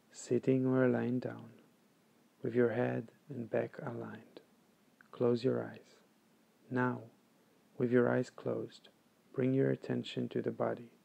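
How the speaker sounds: calm, measured meditation guide; guided meditation. Acted. Meditation teacher guiding listeners to follow the breath, calm and unhurried. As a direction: lead them through it evenly, with long pauses.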